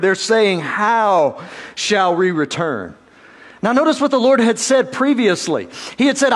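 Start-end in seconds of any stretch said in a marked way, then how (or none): 0.6-2.9 slow, mildly sarcastic question; a touch of smug sarcasm, drawn out. Acted. People answering the Lord's call to return, sarcastic. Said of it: "sarcastically to the Lord".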